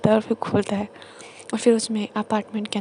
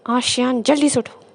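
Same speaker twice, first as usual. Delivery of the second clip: loud sharp call to wake up; 2 semitones higher, 5 dB louder than usual. Retold or imitated. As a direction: shout him awake. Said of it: "तभी ज़ोर से आवाज़ आती है". (ज़ोर से पुकारकर जगाना)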